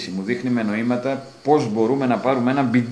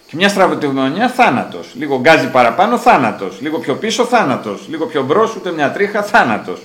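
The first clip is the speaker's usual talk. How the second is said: higher and louder, hammer each θάνατος; every slip is death, press it louder each time; mounting dread; 6 semitones higher, 7 dB louder than usual. A narrator's reading. Driver narrating a deadly turn, tense and loud.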